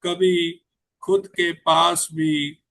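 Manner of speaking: slow, measured recital with pauses between lines; unhurried Hindi poetry reading; poem recitation. Acted. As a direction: let each line land like a verse at a mushaira. Poet recites his poem.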